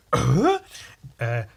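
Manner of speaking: high, loud, mock-reverent proclamation; acted awestruck cultist. Cultist hailing the god Viking, theatrical awe. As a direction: build from stunned disbelief to grand announcement. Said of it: "and he's like".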